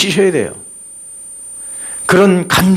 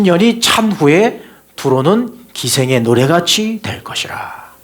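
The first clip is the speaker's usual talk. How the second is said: solemn scripture reading; slower than usual. Acted. Reads scripture aloud, slowly.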